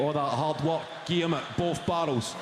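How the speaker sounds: usual speaking voice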